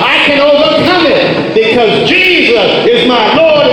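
ringing, rhythmic revival preaching; full-force preaching. Real, not acted. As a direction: preach it out with conviction.

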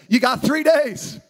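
slow, firm announcement; a leader giving marching orders; Joshua's blunt command. Retold or imitated. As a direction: lay it down flat and certain. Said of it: "and he says".

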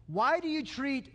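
mock pleading whine; lightly whiny, buttering up the boss. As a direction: suck up with a plaintive appeal. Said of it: "how they're kinda whiny".

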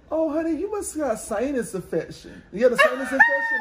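high fast fussing auntie; old lady voice. Retold or imitated. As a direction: squeal it like a worried old lady. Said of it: "old black people always say".

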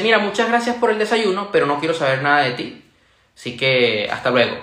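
mildly scornful quote, falling away to the end; curt, contemptuous. Retold or imitated. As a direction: retell a curt, annoyed rejection. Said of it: "en un tono muy tajante, muy despectivo, molesta incluso".

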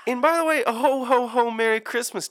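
high, loud Santa ho ho ho; jolly ho ho ho. Acted. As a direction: boom it out like Santa. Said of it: "I'm feeling holly and jolly".

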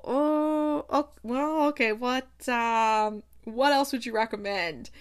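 hesitant, drawn-out "oh"s settling down; mildly thrown, feeling for a reply; flustered hesitation. Acted. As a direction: stall politely, fumbling for words. Diner thrown by her regular order.

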